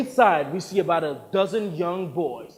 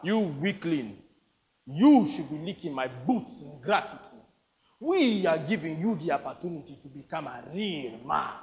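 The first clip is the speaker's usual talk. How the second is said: scornful warlord. Acted. Plays the warlord.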